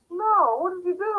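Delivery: high mock-alarmed husband; upset husband. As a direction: play the husband catching her mistake. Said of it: "my husband's like".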